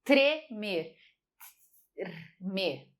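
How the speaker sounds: tremer said slowly with T and R both heard; careful tremer. Shown as a demonstration. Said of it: "eu tenho o som dessas duas, ó".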